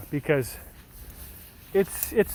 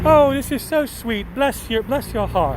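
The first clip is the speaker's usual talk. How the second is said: lightly voiced British mum, higher; a hint of a doting English mum; sweet British mum; 5 semitones higher than usual. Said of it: "She looks like a nice British mum".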